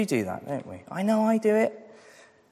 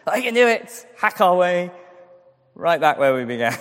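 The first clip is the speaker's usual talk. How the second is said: mock bravado; 3 semitones higher than usual. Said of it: "picture of what we're like".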